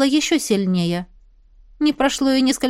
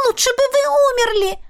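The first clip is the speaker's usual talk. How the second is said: desperate shriek; 12 semitones higher than usual. A narrator's reading. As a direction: cry out shrilly in despair. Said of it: "Отчаянно взвизгнула она".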